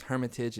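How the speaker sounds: "Hermitage" said the everyday English way; pronunciation attempt. Shown as a demonstration. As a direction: stress "Hermitage" on the first syllable. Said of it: "how do you pronounce this".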